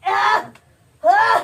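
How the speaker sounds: loud, slow, whimpering cry; wailing answer. Real, not acted. Scared suspect answering his questioners, loud whimpering cry. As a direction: blurt the name out in distress.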